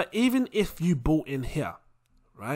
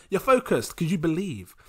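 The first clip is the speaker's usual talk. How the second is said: ordinary talk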